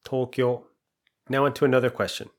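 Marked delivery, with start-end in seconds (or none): 0.0-0.7 Tokyo. with flat Japanese pitch and two short syllables; Japanese intonation. Shown as a demonstration. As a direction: repeat Tokyo. the native way, even and level. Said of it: "Notice the intonation is quite different".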